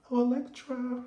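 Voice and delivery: high, prim and proper imitation of Angie; mother gently chiding her daughter, prim and high. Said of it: "Y'all know how Angie talk, real soft and proper".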